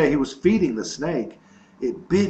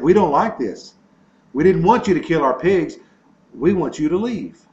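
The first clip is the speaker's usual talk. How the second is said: higher and louder, indignant; upset protest; 4 semitones higher, 6 dB louder than usual. Retold or imitated. Gadarenes telling Jesus to leave, upset and loud. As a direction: townsfolk angrily demanding Jesus leave. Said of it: "they got upset".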